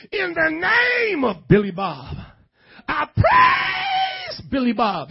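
high, slow, crying mock worship wail; hammed-up worshipper crying out to Billy Bob; mock praise. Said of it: "That would be crazy".

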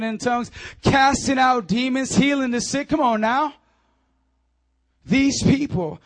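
loud, driving sermon delivery; punchy pulpit exhortation; forceful preaching. Real, not acted. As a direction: preach it with rising fervor.

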